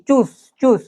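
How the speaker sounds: চুস opening on a clear "ch". Shown as a demonstration. Teacher models the German farewell, clear "ch" in চুস. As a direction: start চুস with a clean Bengali চ. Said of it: "সবসময় পরিষ্কার চ".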